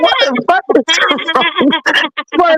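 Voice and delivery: stunned. Retold or imitated. Retold shock at fight threat.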